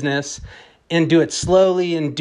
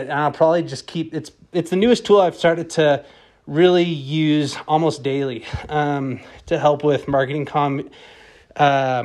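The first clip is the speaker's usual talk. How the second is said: out of breath while talking; winded from riding a bike; breathing hard. Real, not acted. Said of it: "Sorry, I'm breathing hard".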